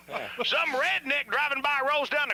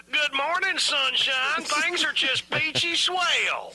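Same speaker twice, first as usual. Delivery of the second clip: mock cheerful greeting; 3 semitones higher, slower than usual. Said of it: "have I ever called and said".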